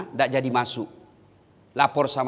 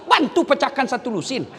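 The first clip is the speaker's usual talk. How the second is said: higher and louder rousing sermon; rally the crowd to shout takbir; full-force preacher; fiery preaching; 10 semitones higher, 5 dB louder than usual. Acted.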